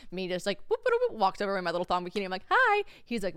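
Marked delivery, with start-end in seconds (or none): 2.5-2.8 chirpy hi. Retold or imitated. Greeting beach vendor flirtily.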